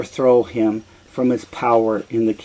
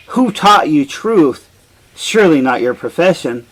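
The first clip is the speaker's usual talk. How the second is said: scornful king; 3 semitones higher, 5 dB louder than usual. Acted. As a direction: scoff at the prophet like an offended king. Oedipus sneers at the prophet.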